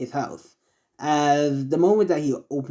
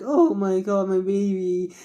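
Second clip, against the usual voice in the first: hammed-up happy weeping, pitched up; mock tearful; 5 semitones higher than usual. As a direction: wail it lightly like an overjoyed mom. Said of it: "letting out some more tears".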